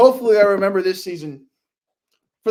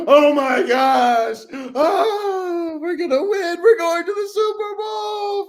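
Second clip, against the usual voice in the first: high, drawn-out celebratory wail; reenacted ecstatic fan scream, climbing higher; yelling in joy; 11 semitones higher, 4 dB louder, much slower than usual. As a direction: yell it across the room, stretching every word. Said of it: "I was yelling across my room".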